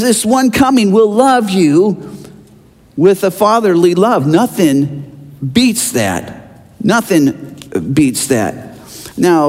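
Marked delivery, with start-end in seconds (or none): 4.3-6.6 slow emphatic. Real, not acted. Repeated for emphasis. 6.8-8.6 slow emphatic. Real, not acted. Repeated for emphasis.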